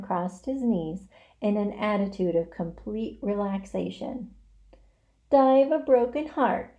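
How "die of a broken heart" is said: raised, loud, scornful parroting; mocking mimicry. A narrator's reading. Rat mimics desperate pig, mocking. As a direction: throw the words back in mockery. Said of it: "he mimicked".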